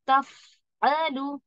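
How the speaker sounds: तफअलु very slow, the voice running on through every sound; drawn-out recitation. Shown as a demonstration. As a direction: stretch तफअलु with a continuous voice. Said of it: "देखिए आवाज जो चल रही है ना". (तफअलु को आवाज़ चलाते हुए धीरे से)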